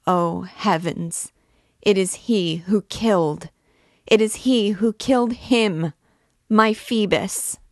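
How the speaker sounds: put-on the girl cries out over her lost Phoebus, anguished; anguished outburst. A narrator's reading. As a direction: grief breaking through as she names him. Girl accusing her lover's killer.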